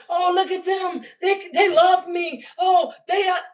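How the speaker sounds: high, slow mocking shout; mocking imitation. Mocking the ex who bragged to the world, high slow shouting. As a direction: shout it like a smug braggart being mocked. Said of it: "you went and told".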